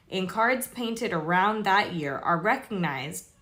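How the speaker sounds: measured read-aloud of an article. Real, not acted. Reading tarot history to viewers, read-aloud voice. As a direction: read it out to viewers, clearly projected.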